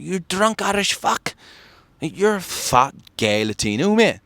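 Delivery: slow, high-pitched mock insults; retold taunting. Aggressive man insulting him at the meetup, taunting. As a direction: imitate an aggressor, stretching each jab.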